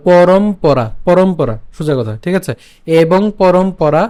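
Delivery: careful, spaced-out demo of পরম পরা; syllables separated for learners; slow syllable by syllable. Shown as a demonstration. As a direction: split পরম পরা slowly into its two parts. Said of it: "বাকি অংশ থাকবে পরা".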